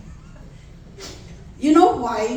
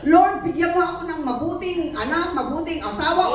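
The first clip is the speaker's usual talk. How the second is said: louder, higher, fast mock shouting at God; mock shouted prayer; 6 semitones higher, 4 dB louder, faster than usual. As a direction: ham up a prayer that demands loudly. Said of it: "ipagsigaw-sigaw".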